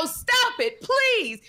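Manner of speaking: mock polite mother pleading; mild pleading mom. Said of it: "she'd have cursed you out".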